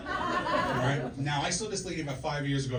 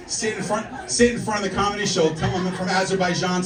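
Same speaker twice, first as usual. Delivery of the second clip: mock shout; 4 semitones higher, 7 dB louder than usual. Heckling audience members, mock mimic.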